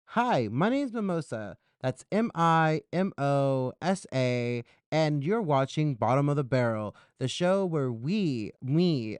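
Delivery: big sing-song greeting, letters spelled out slowly; show-host intro. Acted. Host introduces herself to viewers of the show, presenter intro.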